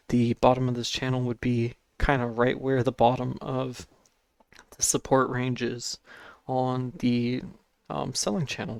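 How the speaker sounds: breathless, struggling for air; short of breath. Real, not acted. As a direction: talk while short of breath. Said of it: "Sorry if I can't breathe right now".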